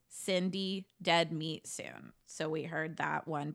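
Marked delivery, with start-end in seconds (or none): 0.1-2.1 lightly imitated raspy threat, slow. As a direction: rasp the threat out slowly. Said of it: "The raspy voice says".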